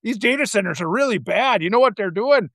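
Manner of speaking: lightly voiced colloquial Wisconsin local; mock Wisconsin everyman; Wisconsin resident. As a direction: complain in a touch of Wisconsin accent. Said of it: "he's doing it in this character".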